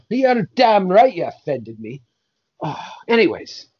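a hint of a grumpy saint, cursing; grumbling old saint fed up with rumours; mild put-on Irish saint; lightly voiced Saint Patrick. Saint Patrick character bit.

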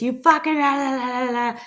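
high-pitched mock rant into gibberish; mock angry yelling. Imitating a person yelling in your face, mock angry rant. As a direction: imitate someone screaming abuse, trailing into la-la-la. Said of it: "they're yelling in your face".

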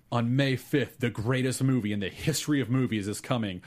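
hyped-up announcer, slowed punchlines; monster truck ad. Acted. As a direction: pitch it like a monster truck rally. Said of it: "announcing a monster truck rally".

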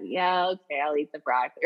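a low, quiet, grudging okay; unenthusiastic agreement. Shown as a demonstration. A kid bribed with iPad time agrees to eat broccoli. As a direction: give in without wanting to. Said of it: "That's not an enthusiastic consent".

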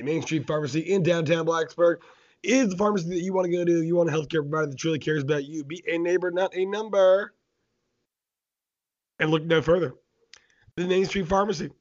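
upbeat, quick radio ad voice; sponsor ad read. Acted. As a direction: sell the pharmacy like a radio spot. Host reads the sponsor ad.

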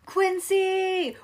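high whispered cheer; excited whisper. Real, not acted. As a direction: cheer her name in a breathy hush. Kid cheering for friend.

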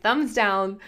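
a giggly thumbs-down brush-off; laughing refusal. Retold or imitated. Retelling refusing her friend's yoga invite, laughing. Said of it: "And I'm like".

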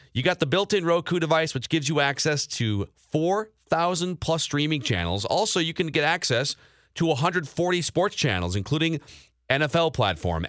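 upbeat host-read commercial. Acted. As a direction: sell the TV brand. Live sponsor read.

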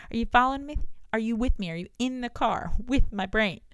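playful check-in. Real, not acted. Checking listeners follow, playful.

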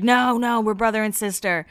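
imitated hasty denial; mock protest. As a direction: wave off the mistake in a retold voice. Acted denial to mistaken couple remark.

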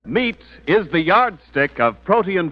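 upbeat announcer selling meat; 1940s radio commercial voice; ad read. Acted. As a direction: sell it like a radio ad. Sponsor ad read.

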